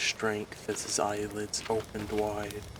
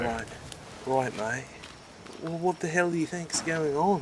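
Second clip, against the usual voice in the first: put-on slightly higher, earnest young man; Richard's voice; 8 semitones higher than usual. Richard urging Sal to build better defenses, earnest. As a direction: urge your friend to build.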